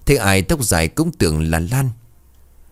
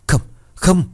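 anguished howl; 9 semitones higher than usual. A narrator's reading. Husband collapsing at the door, howling in grief. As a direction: howl it as he sees his dead wife. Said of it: "Ông gào lên một tiếng".

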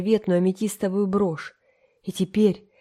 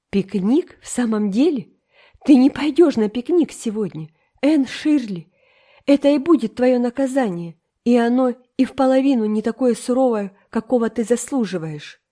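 raised, sharp scolding voice; stern scolding; 5 semitones higher, 5 dB louder than usual. Acted. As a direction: lay down the punishment firmly. Марила отчитывает Энн. (Марила строго отчитывает Энн, повышая голос)

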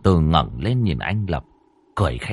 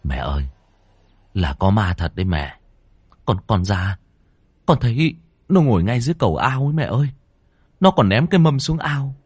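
frightened whisper; faster than usual. Acted. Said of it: "Anh ghé tai mẹ thều thào".

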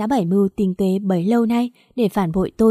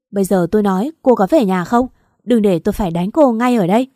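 threat; 5 dB louder than usual. Acted. Husband threatening wife.

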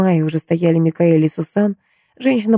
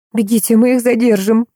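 commanding; 5 semitones higher than usual. A narrator's reading. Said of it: "приказала Сусан".

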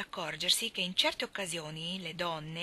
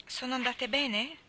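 bitter; 5 semitones higher, slower than usual. A narrator's reading. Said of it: "con tutta l'amarezza".

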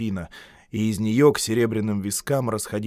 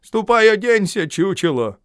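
higher, louder commanding order; elder's tone; 8 semitones higher, 7 dB louder than usual. A narrator's reading. Gubin orders Iona to dress in an elder's tone. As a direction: order him like an older brother. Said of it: "тоном старшего".

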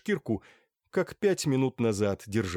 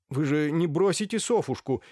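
anxious; 7 semitones higher, 3 dB louder than usual. A narrator's reading. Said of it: "заволновался Лаевский".

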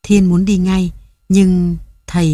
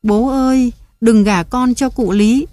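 a frightened daughter crying to her father, much higher; crying plea; 6 semitones higher than usual. A narrator's reading. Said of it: "cô chạy vào khóc lóc".

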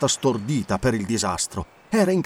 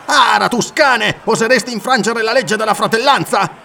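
loud, much higher furious rebuke; shouted accusation, higher pitch; angry rebuke; 10 semitones higher, 6 dB louder than usual. Acted. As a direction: stop him cold with scorn. Corinthian restrains the rat-faced pirate.

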